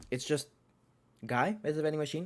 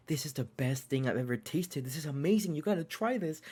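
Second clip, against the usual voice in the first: mildly excited retold rave, rising higher; hyped guards; 4 semitones higher than usual. Guards urging others to try the new udon, hyped. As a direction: imitate excited guards, pitch climbing as it goes. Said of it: "they're so hyped".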